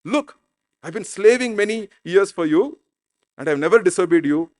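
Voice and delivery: mock indignant son talking back; a touch of insolent grievance; disrespectful. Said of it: "very disrespectfully talking to the father".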